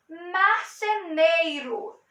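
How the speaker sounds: marceneiro said slowly, syllable by syllable. Shown as a demonstration. Teacher slowly splitting marceneiro into syllables for students. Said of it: "O I fica juntinho do neiro".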